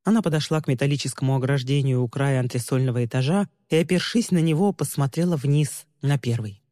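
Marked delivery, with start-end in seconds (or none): none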